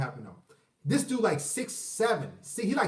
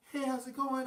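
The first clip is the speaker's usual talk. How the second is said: soft, hesitant, halting greeting; timid impression; 4 semitones higher, 7 dB quieter than usual. Shown as a demonstration. Man demonstrating a timid dad's greeting, soft and hesitant. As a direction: imitate someone unsure, quietly stumbling into hello. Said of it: "somebody that's real timid".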